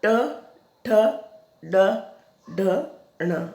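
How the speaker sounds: ट, ठ, ड, ढ, ण said one by one with pauses; sounding out consonants. Shown as a demonstration. Teacher reciting retroflex letters to pupils, one at a time. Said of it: "जो पहला वर्ण बोलोगे".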